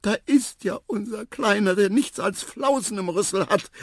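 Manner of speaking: high, loud fussing aunts; trumpeting. A narrator's reading. Elephant aunts greeting their little one, loud high trumpeting. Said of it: "posaunten die Tanten in allen Tonlagen".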